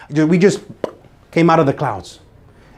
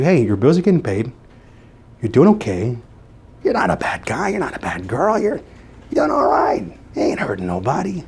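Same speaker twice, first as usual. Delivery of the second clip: voice of comfort; 2 semitones lower, 4 dB quieter than usual. Retold or imitated. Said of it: "The comfort tells you".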